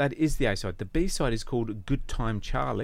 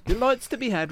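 emphatic echo; 10 semitones higher, 6 dB louder than usual. Real, not acted. Host echoes his own line.

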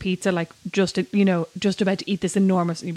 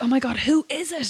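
higher-pitched gossipy exclamation; eager curiosity; 6 semitones higher than usual. Acted. Follower reacting to a tweet about a nemesis, eagerly curious. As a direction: act out burning curiosity.

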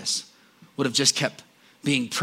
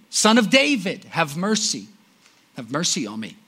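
retold yell, then fading; 3 semitones higher than usual. Blind man yells again at passing Jesus, pleading. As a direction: shout it, then let it fall away. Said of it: "He yells again".

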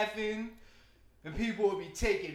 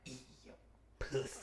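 low hushed voice; 5 semitones lower, 9 dB quieter than usual. Retold or imitated. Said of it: "I don't be saying, like".

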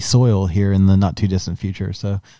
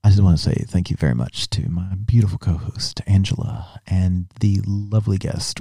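a hint of sultry late-night host; late-night radio voice. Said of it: "I'll do this in Bradford After Dark voice".

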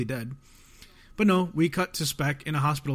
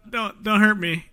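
hammed-up whimper, a bit louder; mock crying plea; 6 semitones higher, 6 dB louder than usual. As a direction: fake a scared plea. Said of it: "Baki starts crying".

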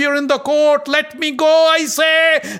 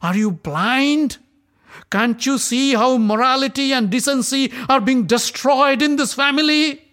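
much higher, louder furious accusation; raging; 10 semitones higher, 5 dB louder than usual. Acted. Draupadi rebukes the silent Kuru elders, raging. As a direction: shame the elders with fury. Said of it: "transformed into pure rage".

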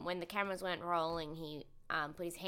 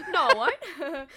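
imitating Brittany; 7 semitones higher, 10 dB louder than usual. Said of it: "I'm gonna try and imitate her".

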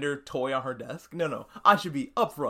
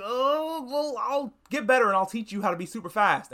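a high, bright-eyed burst on the opening oh, then eager pep; playing A-Train forcing upbeat hope; mock cheerful promise; 7 semitones higher than usual. A-Train cheering up the dying kid.

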